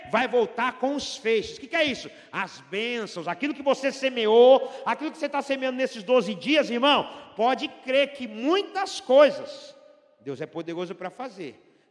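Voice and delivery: loud, high, driving sermon climax; fiery preaching. Acted. Preaching at full force.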